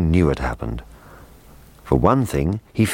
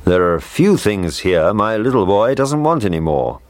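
a man; 4 semitones higher than usual. Acted. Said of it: "the man was saying".

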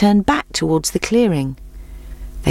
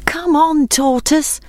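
much higher, urgent cheer; anxious call; 10 semitones higher, slower than usual. Acted. Friends call anxiously to the plodding tortoise. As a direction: urge him on from the sidelines. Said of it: "called his friends anxiously".

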